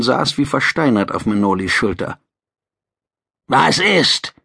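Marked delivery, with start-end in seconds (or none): 3.5-4.3 curt reptilian bark; gruff lizard voice. Acted. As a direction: snap it like a gruff alien. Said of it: "fragte der Topsider barsch".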